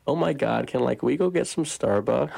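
a light, mock American valley-girl accent. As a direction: toss off a playful American accent, half-hearted. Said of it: "Can you do an American accent".

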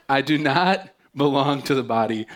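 put-on the ear's line in a jokey Scottish accent. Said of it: "an ear might have a Scottish accent".

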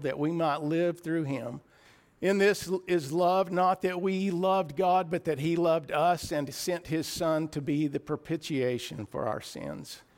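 lifted, careful Bible reading voice; scripture reading. Acted. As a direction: read the verse out to the congregation. Reads scripture aloud.

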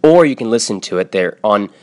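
smooth podcast ad read for The Great Courses; a light, friendly pitch to listeners; sponsor ad read. Acted. Host reads a sponsor ad.

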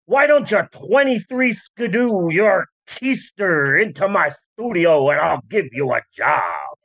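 hammed-up old-timey fast-talker; 1930s Walt Disney. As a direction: play a thirties gent sweet-talking a girl. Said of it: "That's how every man talked".

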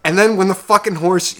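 ordinary talk, nothing marked

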